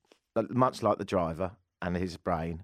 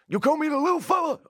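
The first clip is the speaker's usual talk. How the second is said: high, loud Italian gangster caricature; mock Italian accent; 5 dB louder than usual. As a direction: squawk it in a hammed-up Italian accent. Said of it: "I can only do Italian".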